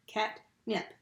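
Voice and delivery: Catnip in two separate pushes; split into syllables. Shown as a demonstration. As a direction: say Catnip with a break between cat and nip. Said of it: "it's two pushes to get that one out".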